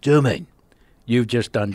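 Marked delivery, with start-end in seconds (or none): 0.0-0.5 "Do you mean?" gruff and clipped to "Joe mean"; gruff Statham. Shown as a demonstration. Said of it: "gruff up your voice".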